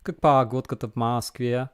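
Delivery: Russian in a posh Moscow accent, vowels stretched. Shown as a demonstration. Streamer demonstrating how big-city Russians talk, posh Moscow accent. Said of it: "posh Russian accent".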